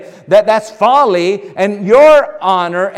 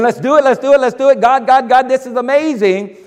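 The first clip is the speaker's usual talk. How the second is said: eager hyped-up voice, a notch higher; mock excitement; 4 semitones higher than usual. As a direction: play a believer fired up for a moment. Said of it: "It gets all excited".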